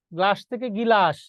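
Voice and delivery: গ্লাস with joined gl, then গিলাস with an i between; inserted vowel. Shown as a demonstration. Teacher recalls an example for class, contrasting গ্লাস and গিলাস. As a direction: split গিলাস into gi-lash after saying গ্লাস. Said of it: "কিন্তু উচ্চারণ কোথায়?".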